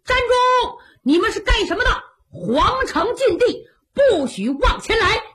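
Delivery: high, loud guard's warning yell; shouting from afar. Acted. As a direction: shout them down from the gate. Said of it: "冲着远处高喊".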